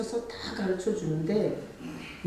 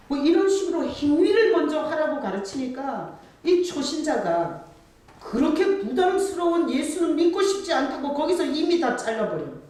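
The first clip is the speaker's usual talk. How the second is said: high, loud sermon climax; fiery preaching; 7 semitones higher, 4 dB louder than usual. Acted. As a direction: hammer it home from the pulpit. Preaching at full force. (높고 힘찬 설교 절정)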